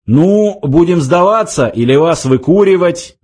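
policeman's half-strength yell; shouted demand. A narrator's reading. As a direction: call out an ultimatum. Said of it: "закричал один из полицейских".

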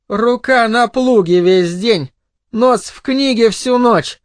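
lightly mocking woman, pitched high; scornful snort. A narrator's reading. Wife scoffs at her bookish husband, snorting. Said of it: "фыркнула Арлетт".

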